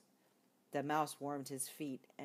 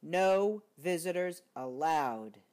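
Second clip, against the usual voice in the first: sniffled rule; 7 dB louder, slower than usual. Acted. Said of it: "he sniffled".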